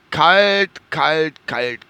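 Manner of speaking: repeated cold word, shivering. Real, not acted. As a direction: shiver out the words. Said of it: "Alter, ist das kalt".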